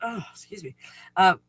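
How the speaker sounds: talking through hiccups. Real, not acted. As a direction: speak between hiccups. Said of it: "I got the hiccups".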